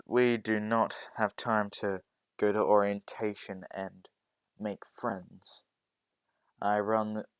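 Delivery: loud stern teacher; stern scolding. Acted. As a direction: lecture her sharply.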